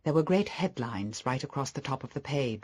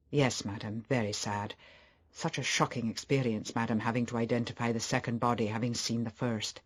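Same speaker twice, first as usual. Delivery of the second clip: slightly lowered, restrained servant's voice; lightly voiced butler offering sober condolence; a hint of a solemn manservant; deferential butler; 3 semitones lower, 3 dB quieter than usual.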